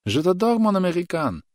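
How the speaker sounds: high called-out reply; young girl calling across the field; girl's call. A narrator's reading. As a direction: call back to the soldier from afar. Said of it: "крикнула она".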